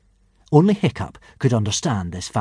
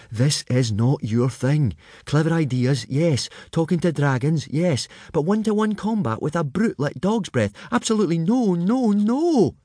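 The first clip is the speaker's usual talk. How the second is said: rising to much higher insistent warning; fretful friend; 7 semitones higher than usual. A narrator's reading. Fishlegs warns Hiccup off the fight, rising much higher. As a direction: talk him out of it.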